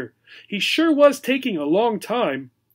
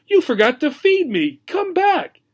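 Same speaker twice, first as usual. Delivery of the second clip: much higher, louder pleading cry; desperate cry; 11 semitones higher, 4 dB louder than usual. Acted. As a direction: beg him not to leave. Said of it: "cried Obi".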